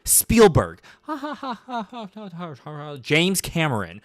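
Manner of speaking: high fake laughing between dropped names; mock film-bro chatter. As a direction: ham up the schmoozing diner guys. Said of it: "you just hear, like, very distinct things".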